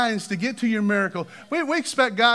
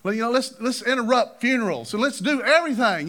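excited disciples; 4 semitones higher, 4 dB louder than usual. Retold or imitated. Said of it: "they're excited".

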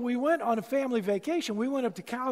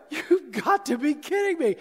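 laughing disbelief; 4 semitones higher, 3 dB louder than usual. Retold or imitated. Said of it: "I'm laughing".

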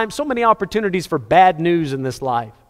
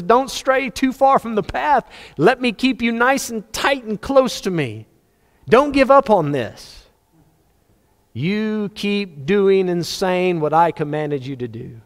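earnest urging; 5 semitones higher, slower than usual. Acted. God urging perseverance.

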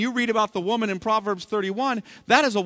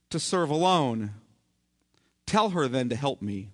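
quoting Martha; 5 semitones lower than usual. Retold or imitated. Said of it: "and said".

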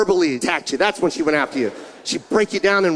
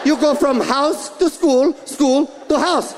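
imitating scolding mom; 4 semitones higher than usual. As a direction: lecture him like his angry mother. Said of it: "Two and a half hours of yelling".

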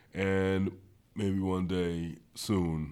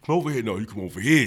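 mock calling out; 4 semitones higher, 9 dB louder, faster than usual.

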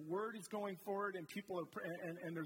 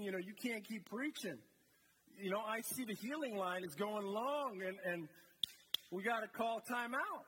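impatient disciples; 2 semitones higher than usual. Retold or imitated. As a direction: play the antsy helper tapping his watch. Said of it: "They're like".

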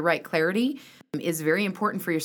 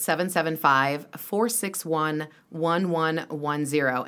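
slow, spaced-out digits; slow and clear; 2 semitones lower, slower than usual. Real, not acted. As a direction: spell out each digit slowly. Reads phone number slowly.

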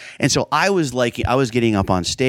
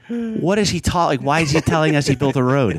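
higher-pitched mock bewilderment; baffled audience; 5 semitones higher than usual. Comic retelling the crowd's reaction, mock bafflement. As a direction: imitate a crowd that is lost.

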